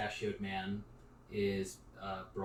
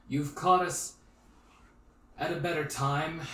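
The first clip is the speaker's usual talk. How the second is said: measured, formal small-town noble; stately mayor, lightly acted; older mayor; 3 semitones higher, 6 dB louder than usual. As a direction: address strangers with guarded formality and deliberate pauses. Game master voices the mayor.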